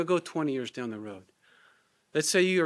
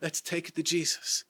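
gently. Shown as a demonstration. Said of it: "and gently say".

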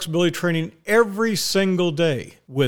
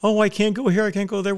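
very high, whiny mocking voice for vaccinated women; 13 semitones higher than usual. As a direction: mimic her worrying about her friends, way up high. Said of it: "especially the women".

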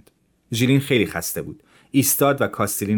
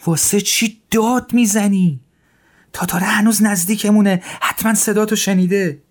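alarmed scolding; 12 semitones higher, 5 dB louder than usual. A narrator's reading. Scolding friend for shouting.

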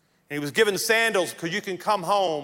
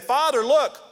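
protesting son; 6 semitones higher than usual. Acted. Older son protesting to father.

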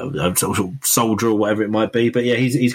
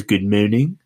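lightly imitated bad French accent; comical French accent; slower than usual. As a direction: mangle the vowels like a mock-French policeman. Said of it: "that sort of French accent".

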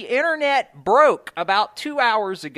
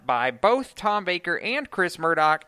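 ordinary delivery

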